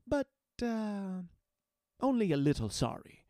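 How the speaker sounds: dry, mocking apology; wry. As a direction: toss it off with a smirk. Akshan taunting.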